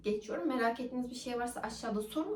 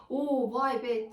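mock pain exclamation; 5 dB louder, much slower than usual. Shown as a demonstration. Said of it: "tarzında değil".

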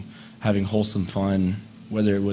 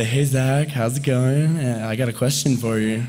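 put-on chirpy girl asking; 4 semitones higher than usual. Shown as a demonstration. High school girls approach Zach, chirpy and friendly. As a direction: greet him cheerily, then ask. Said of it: "This is just how a person goes".

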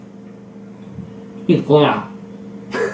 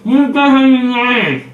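marbles in mouth. Real, not acted. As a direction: mouth stuffed full. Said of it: "no se te entiende nada".

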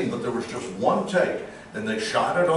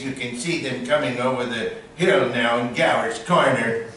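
lightly voiced radio-era Orson; a hint of Mercury Theater announcer; young Orson Welles. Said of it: "I do the young Orson".

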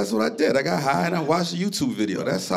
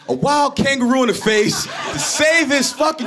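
impassioned shout; 10 semitones higher, slower than usual. Real, not acted. Comic praising a dog owner's courage, high impassioned shout. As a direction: shout it like a sermon about love. Building to the punchline.

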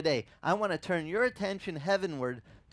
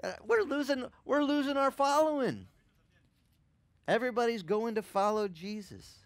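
much higher, indignant outburst; upset leaders; 8 semitones higher than usual. Retold or imitated. Pharisees losing their following, high indignant complaint. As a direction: whine in outrage at losing followers. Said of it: "They are upset".

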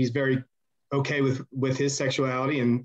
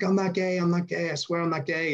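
higher imitated Chad, pleading he's not gay; mock desperate protest; pleading denial; 4 semitones higher than usual.

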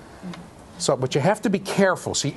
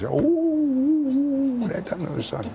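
impressed ooh; 13 semitones higher, much slower than usual. Pretend. Mock awe at jargon.

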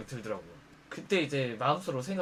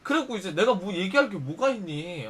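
plain reading voice

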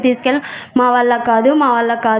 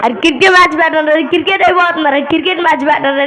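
eager demand; 4 semitones higher than usual. Acted. Demanding the cricket match.

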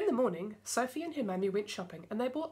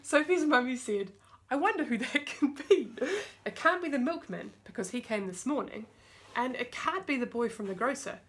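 put-on reading to children. A narrator's reading. Mum reading a picture book to her kids, lively storytelling voice. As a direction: bring the story alive for little listeners.

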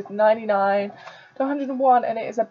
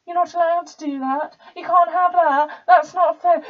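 higher-pitched mock whinge; mocking complaint; 5 semitones higher than usual. Posh student mimicking those who object, in a mocking higher voice.

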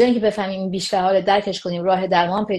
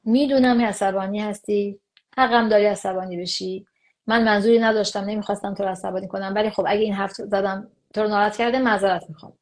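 calm acknowledging. Shown as a demonstration. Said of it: "کلید اینه که ما به رسمیت بشناسیم".

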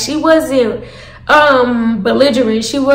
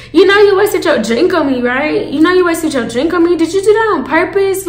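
higher-pitched pointed questioning; confronting; 4 semitones higher than usual. Retold or imitated. Asking Selfish about the wasted drink, confronting. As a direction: press her for an answer, pitch raised.

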